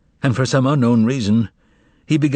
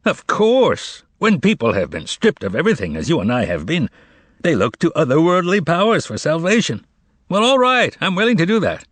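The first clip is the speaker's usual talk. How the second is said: much higher, amused laughing lilt; 7 semitones higher than usual. Acted. The master to Margarita, laughing at otherworldly powers. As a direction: let a laugh lift the words. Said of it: "adding with a laugh".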